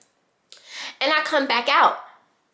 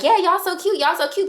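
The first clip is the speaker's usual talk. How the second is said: hyped friends cheering; 8 semitones higher than usual. Retold or imitated. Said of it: "everybody's like".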